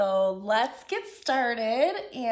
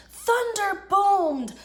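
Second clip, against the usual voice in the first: louder, slow booming words; booming storm; 6 semitones higher, 5 dB louder, slower than usual. A narrator's reading. Narrator describing the storm, slow booming voice. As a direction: let the thunder boom.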